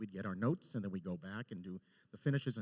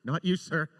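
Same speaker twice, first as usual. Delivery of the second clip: louder called-down apology; calling down to a guard below, louder; 4 semitones higher, 11 dB louder than usual. Retold or imitated. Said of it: "And I was like".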